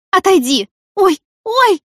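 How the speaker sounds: crying out. Acted. Woman in labour crying out to the doctor, loud and high. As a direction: yelp out as the pain hits. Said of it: "вскрикнула Марго".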